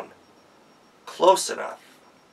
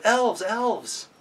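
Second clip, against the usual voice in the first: put-on higher, eager girl's call to the elves; lightly voiced girl calling; 6 semitones higher, slower than usual. A narrator's reading. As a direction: call out brightly like a young girl. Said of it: "she called out to the elves".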